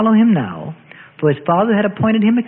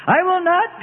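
inner vow; 12 semitones higher, slower than usual. A narrator's reading. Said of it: "Peter said within himself".

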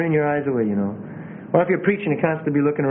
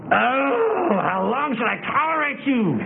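hammed-up exasperated wail; high, overdone whine of reproach; acid; 6 semitones higher, slower than usual. Shown as a demonstration. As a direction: lament it bitterly, as a parody. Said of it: "you know he wasn't acid".

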